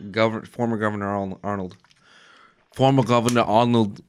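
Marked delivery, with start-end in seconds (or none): 2.7-4.0 mock Austrian accent on the title; Austrian-accented politician impression; Arnold's Austrian accent. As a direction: say it with dropped Austrian Rs. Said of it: "You sounded like you were Arnold".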